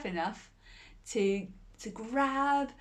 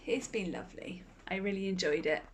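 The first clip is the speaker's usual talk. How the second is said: whisper; 2 semitones lower, 6 dB quieter, faster than usual. Real, not acted. Soft closing to audience.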